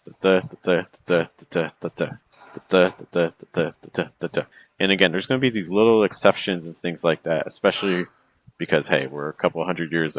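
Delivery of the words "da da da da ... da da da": "da DA" repeated evenly, second "da" stressed; iambic beat. Shown as a demonstration. Teacher demonstrating the general pattern of a sonnet, iambic beat. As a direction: tap out "da" in light-heavy pairs. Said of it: "the pattern is doing something like this".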